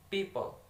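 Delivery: "people" falling from a stressed first syllable. Shown as a demonstration. Student repeating "people" to show first-syllable stress. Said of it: "stress in the first syllable".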